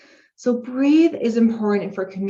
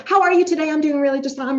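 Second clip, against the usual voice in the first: rushed speech demo; 7 semitones higher, 5 dB louder, faster than usual. Shown as a demonstration. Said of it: "way too fast".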